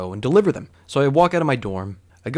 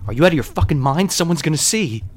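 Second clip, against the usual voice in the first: heated and flustered; 3 semitones higher, 3 dB louder than usual. Retold or imitated. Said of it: "I'm all heated and flustered".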